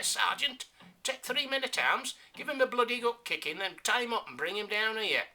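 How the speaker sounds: high, loud orders to the sergeant; barking lieutenant. Acted.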